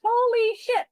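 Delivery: holy-cow amazement, voice jumping up; stunned delight. Retold or imitated. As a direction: blurt it out in happy shock. Retelling shocked joy at offer.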